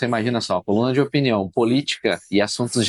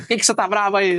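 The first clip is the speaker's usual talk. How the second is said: higher-pitched, mock-alarmed question; lightly acted protest, pitched up; retold puzzled challenge; 9 semitones higher than usual. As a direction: act out questioning an upset wife. Retelling his question to wife.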